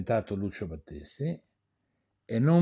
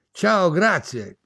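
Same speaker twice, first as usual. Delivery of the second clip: curt goodbye; 4 semitones higher, 5 dB louder, much slower than usual. Retold or imitated.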